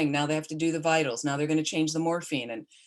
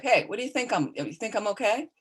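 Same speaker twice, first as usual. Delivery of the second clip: higher, mock-gruff bark; barked joke; 6 semitones higher than usual. Patient barks a joke at his visitor, mock-gruff. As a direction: throw it out like a teasing bark. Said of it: "he kind of barked out at me like".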